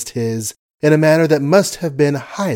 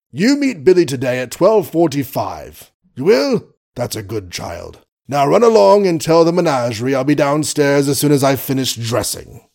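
lightly voiced blustering old colonel; pompous sputtering colonel; 3 semitones higher than usual.

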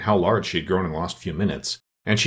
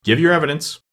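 king's order; 7 semitones higher, 4 dB louder than usual. A narrator's reading. King orders the cook to testify.

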